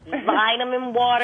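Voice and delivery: slow drawn-out American vitamin water, vai-duh-min wah-ter; mock American accent. Shown as a demonstration. English guest copying the American host's accent. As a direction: slowly mimic an American saying vitamin water. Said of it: "in your American accent".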